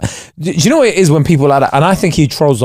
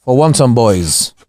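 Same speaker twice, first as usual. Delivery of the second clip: slow, low mock-solemn quote; Cantona imitation; 4 semitones lower, slower than usual. Co-host quoting the speech back, mock-solemn imitation. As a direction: imitate a slow, grave orator. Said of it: "When he went, when he went".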